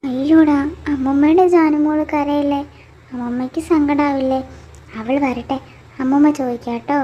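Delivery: big-voiced fussing grandmother; loud consoling. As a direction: fuss loudly over the crying grandchild. (ഉറക്കെ ആശ്വസിപ്പിച്ച്)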